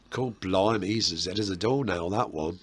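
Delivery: light cockney East End accent. Shown as a demonstration. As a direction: put on a London East End voice. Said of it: "That was my East End accent".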